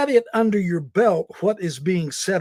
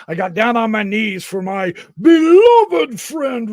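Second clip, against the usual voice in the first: loud joyful call to a friend; excited shout; 4 semitones higher, 7 dB louder than usual. Real, not acted. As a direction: shout it out happily.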